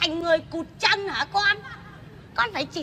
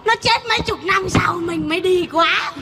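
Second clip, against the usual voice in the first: laughing shout. Real, not acted. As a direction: laugh as you shout the joke. Grandmother joking about aging grandchild.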